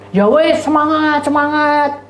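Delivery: high, singsong mock encouragement; imitating a taunting "go on then"; mocking cheer. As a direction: cheer them on sarcastically, pitched high. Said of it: "Ngece dia".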